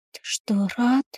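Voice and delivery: a daughter, through tears, asks her father if he's glad. A narrator's reading. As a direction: ask it quietly, still crying. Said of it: "сквозь слёзы спрашиваю я".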